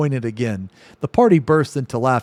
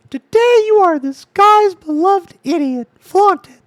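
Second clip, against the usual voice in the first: much higher, louder squeaky put-on voice; Ember impression; 9 dB louder than usual. Ember impression squealed at a party guest. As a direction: squeal it like a cartoon character. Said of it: "that's my best Ember impression".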